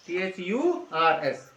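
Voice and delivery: slow, letter by letter spelling. Shown as a demonstration. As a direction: spell each letter clearly and slowly. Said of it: "are उसमें miss कर देते हैं". (धीरे-धीरे एक-एक अक्षर बोलकर)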